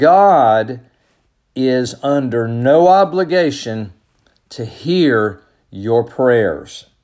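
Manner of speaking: slow, deliberate, words spaced apart, "God" drawn out. Addressing listeners, the speaker says it slowly so they can hear it. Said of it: "I'm going to say it slowly".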